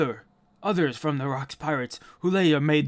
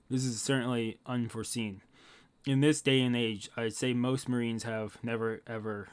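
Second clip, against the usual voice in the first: low-key, softer storyteller reading; story narration; 3 semitones lower, 3 dB quieter than usual. Acted. Telling viewers of the legendary Rocks Pirates, hushed narration. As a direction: recount it quietly like an old tale. Reads a character's lines aloud.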